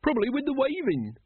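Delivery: high-pitched woman sharing her wisdom; wise-sounding woman. A narrator's reading. A woman explains kings' troubles to the crowd, wisely. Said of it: "said the woman wisely".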